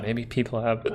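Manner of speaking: hiccuping mid-sentence; hiccups. Real, not acted. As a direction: talk through a hiccup. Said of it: "I'm hiccuping".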